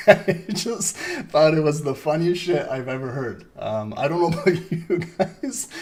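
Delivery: words squeezed through real laughter; laughing while talking. Real, not acted. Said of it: "I died laughing".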